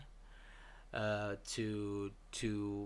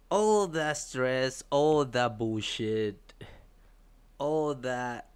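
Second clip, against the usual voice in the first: frustrated rant; 2 semitones higher, 6 dB louder, slower than usual. Real, not acted. Venting frustration.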